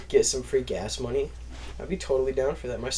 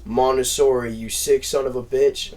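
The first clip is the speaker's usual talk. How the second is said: mild mock telling-off, a bit louder; angry recruiter; 4 dB louder than usual. Recruiter phoning his graduated recruit, mock angry scolding. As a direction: lightly play a recruiter cussing out his recruit. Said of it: "he fucking calls me up".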